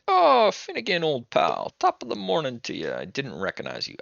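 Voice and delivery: high, hammed-up Irish greeting; bad Irish accent. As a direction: greet an old pal in a badly faked Irish lilt. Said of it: "I'm doing a bad Irish accent".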